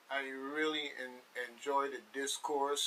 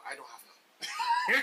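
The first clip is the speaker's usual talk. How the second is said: much higher, slow, laughing through it; 5 dB louder, slower than usual. Real, not acted. Host joking that she has no secrets, laughing. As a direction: giggle out the denial.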